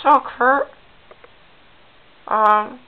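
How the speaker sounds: lightly voiced high talk-show host; Oprah impression. Oprah welcoming Kurt to her show, light impression. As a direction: greet your guest like Oprah. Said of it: "welcome to the Oprah show".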